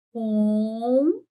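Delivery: COM held long on its nasal vowel; drawn-out syllable. Shown as a demonstration. Teacher sounding out one syllable, long and sustained. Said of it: "Tá assim".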